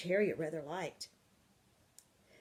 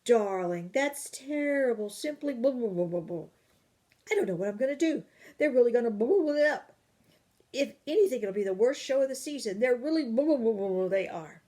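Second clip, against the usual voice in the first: high, loud dismayed complaining; upset exclaiming; 5 semitones higher, 8 dB louder than usual. Acted. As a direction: throw up your hands in dismay. Parents' upset talk downstairs.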